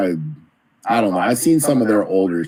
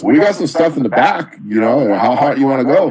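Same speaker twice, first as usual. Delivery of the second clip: imitating the taco guy; 6 semitones higher, 4 dB louder than usual. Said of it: "And he goes".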